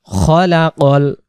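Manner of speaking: খলাকাল with short খ, not খালাকাল; short kha. Shown as a demonstration. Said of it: "খালাকাল না". (খলাকাল, খালাকাল নয়)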